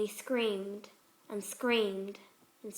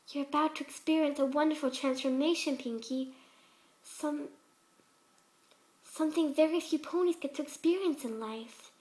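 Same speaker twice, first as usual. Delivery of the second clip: a hint of a gentle, higher pony voice, sweetly unsettling; lightly voiced sweet Fluttershy; 3 semitones higher than usual. Fluttershy voice again.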